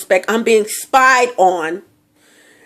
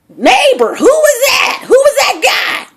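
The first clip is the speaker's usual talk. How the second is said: put-on boyfriend's voice; 3 dB louder, slower than usual. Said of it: "he asked me".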